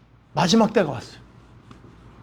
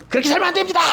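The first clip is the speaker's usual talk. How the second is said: much higher, hammered-out pulpit rebuke; stern preaching; 10 semitones higher, much faster than usual. Shown as a demonstration. Pastor showing the harsh way to warn a congregation, high stern rebuke. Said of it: "이렇게 얘기하면 상처받는데".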